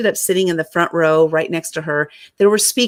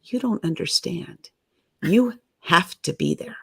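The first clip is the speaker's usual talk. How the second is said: earnest; 5 dB quieter than usual. Retold or imitated. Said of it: "she looked at me square in the face and she goes".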